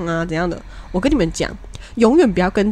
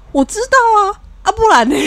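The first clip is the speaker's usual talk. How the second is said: high, cheeky admission; gleeful teasing; 13 semitones higher, 5 dB louder than usual. Retold or imitated. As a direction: rub it in playfully. Teasing reply to the friend.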